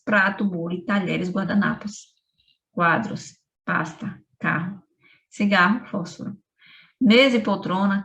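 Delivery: measured reading of a list of objects, each word set apart by pauses; literary reading aloud. Acted. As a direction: read the list like a spare modern poem, one item at a time. Reads the text Circuito Fechado aloud. (leitura expressiva de um texto literário, com pausas entre as palavras)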